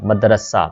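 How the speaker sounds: मदरसा as mad-ra-saa, a on m and r; correct pronunciation demo. Shown as a demonstration. Teacher showing the vowel marks, careful demo of मदरसा as mad-ra-saa. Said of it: "मीम के ऊपर ज़बर है".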